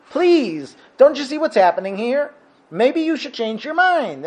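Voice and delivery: high-pitched urging; acted pleading. Sailors begging Yonah to change his mind, pleading.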